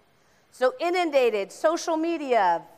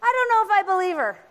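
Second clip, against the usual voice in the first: skeptical aside; 7 semitones higher, 4 dB louder, faster than usual. Acted. Voicing doubtful audience.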